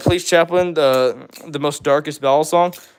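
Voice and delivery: ordinary talk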